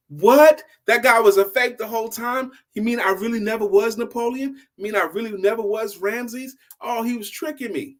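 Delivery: stunned he was fooled all along; shocked disbelief. Acted. Discovers psychic was fake.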